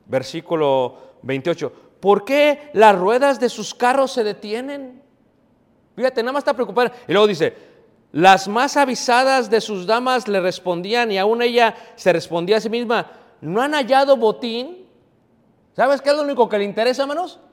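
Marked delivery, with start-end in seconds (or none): 2.0-5.0 high, loud question from the verse; scripture reading. Real, not acted. Preacher reads the mother's question, emphatic scripture reading. 8.1-14.9 loud, high preacher's reading; scripture reading. Real, not acted. Preacher reads the ladies' answer aloud, emphatic scripture reading.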